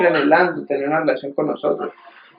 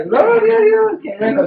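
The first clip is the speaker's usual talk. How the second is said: anfitrión encantado. Retold or imitated. Anfitrión celebra el eructo.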